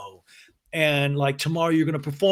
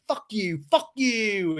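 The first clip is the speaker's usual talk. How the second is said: James cursing; 7 semitones higher, slower than usual. Retold or imitated. James curses at them.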